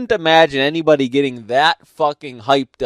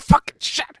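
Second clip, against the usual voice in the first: whispered curse; 3 dB quieter than usual. Retold or imitated. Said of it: "You're like".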